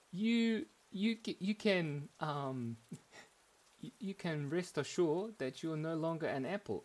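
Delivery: high, put-on story-character voice; apple character. Apple breaking news to his friend, mock-solemn character voice.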